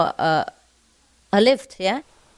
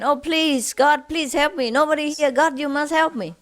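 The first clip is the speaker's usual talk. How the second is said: higher, mock desperate plea to God; pleading; 5 semitones higher than usual. Hanging man begs God for help, high mock pleading. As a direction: beg the sky for rescue, pitched up. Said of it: "he kept shouting again".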